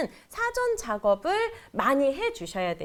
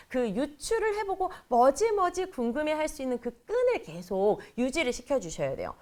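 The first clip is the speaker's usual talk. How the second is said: ordinary delivery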